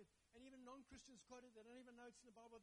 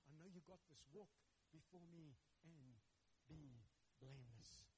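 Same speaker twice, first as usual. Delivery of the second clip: tender God; 4 semitones lower than usual. Acted. God tenderly encouraging the believer.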